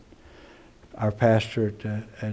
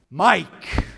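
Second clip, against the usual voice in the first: high call by name; 8 semitones higher, 3 dB louder than usual. Acted. Shepherd calling one sheep by name, calling out. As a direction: call it out to stop a stray.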